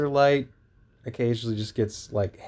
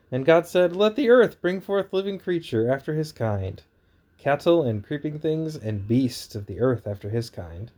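booming biblical narration; 2 semitones higher than usual. Acted. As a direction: boom it out like a preacher. Reads Genesis aloud.

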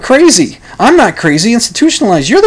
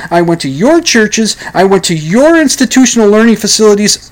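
high, indignant outburst; indignant teen rant; 3 semitones higher than usual. Acted. Teenager railing at his parents, high and indignant. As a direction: fire back at the parents.

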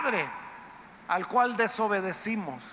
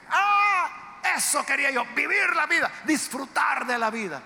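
gleeful exclaim; 4 semitones higher than usual. Retold or imitated. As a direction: cheer it like someone just let off the leash. Crowd imagined cheering free sin.

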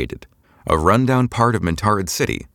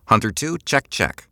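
muffled voice; 4 semitones higher than usual. Acted. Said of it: "Eliza's muffled voice".

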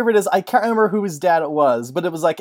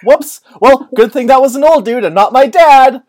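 casual oops; 6 semitones higher, 8 dB louder than usual. Retold or imitated. Hero shrugs off killing someone.

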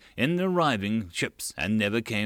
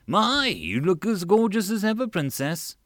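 flirty; 8 semitones higher than usual. Acted. Dijon flirting with princess.

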